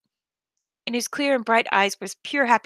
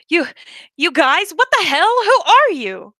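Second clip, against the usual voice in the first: much higher, louder panicked demand; alarmed shout; 7 semitones higher, 7 dB louder than usual. Acted. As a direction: shout at the intruders. Confronting strangers at table.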